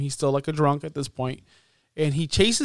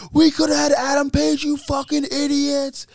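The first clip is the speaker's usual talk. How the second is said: yelling at them; 10 semitones higher than usual. Retold or imitated. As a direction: berate the whole room at full volume. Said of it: "He starts yelling at them all".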